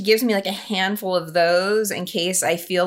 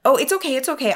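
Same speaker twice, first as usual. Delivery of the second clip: higher, lightly mock-soothing reassurance; reassuring; 6 semitones higher, faster than usual. Friend's mom reassuring her about the eaten Jesus, mild mock soothing. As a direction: play the flustered mom smoothing it over, a touch higher. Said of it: "She was horrified. So she's like".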